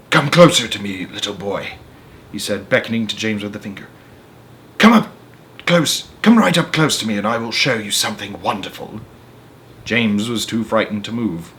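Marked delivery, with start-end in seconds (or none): 0.1-1.7 slow creaky. Acted. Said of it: "his voice was very slow and creaky". 4.8-9.0 slow creaky. Acted. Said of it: "his voice was very slow and creaky".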